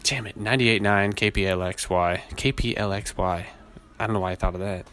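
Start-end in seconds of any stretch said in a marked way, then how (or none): 0.3-3.5 radio DJ retry. Shown as a demonstration. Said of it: "I already fucked it up".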